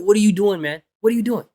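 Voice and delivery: normal talking voice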